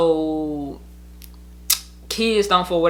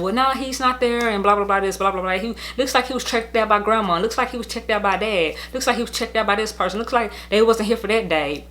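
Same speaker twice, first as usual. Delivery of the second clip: higher-pitched, lightly voiced caller; raised-pitch quoted phone report; caller reporting back; 4 semitones higher than usual. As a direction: imitate someone rattling off records over the phone. Acting out their phone call.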